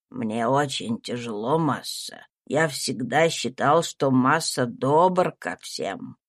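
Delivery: low, slow, heavy-hearted servant; troubled servant Tom. A narrator's reading. Tom confessing his worry to his master, low and slow. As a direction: drag the words out, low and burdened.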